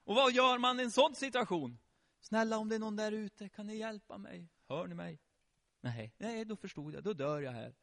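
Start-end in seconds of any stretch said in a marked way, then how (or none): 2.2-5.2 soft, timid call for help; meek plea. Acted. Man trapped under a tub asking for help, meek murmur. 5.8-7.7 low, soft giving up; meek resignation. Acted. Trapped man deciding nobody is coming, meek resigned murmur.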